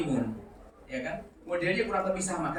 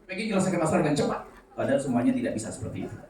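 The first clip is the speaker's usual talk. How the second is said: ordinary delivery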